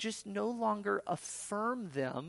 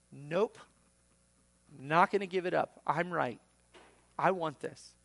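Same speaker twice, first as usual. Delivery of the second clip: firm, louder dig-in; stubborn refusal; 6 dB louder than usual. Acted. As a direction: refuse like someone who won't budge. Acted stubborn refuser answering.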